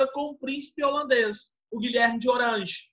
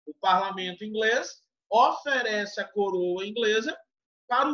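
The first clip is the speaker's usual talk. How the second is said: over enunciating. Shown as a demonstration. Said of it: "Vou falar devagarzinho que você vai entender".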